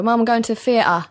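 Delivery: retold younger self saying "theatre" as "fee-uh"; imitated East London "theatre", F at the start; East London th-fronting. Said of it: "to be slightly well-spoken".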